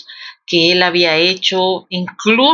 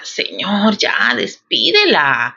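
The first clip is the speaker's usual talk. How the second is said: hushed urging; slower than usual. Retold or imitated. Disciples urging Jesus, hushed.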